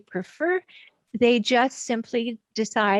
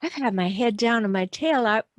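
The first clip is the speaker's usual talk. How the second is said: bewildered self-questioning. Retold or imitated. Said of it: "you pop up and look around and say".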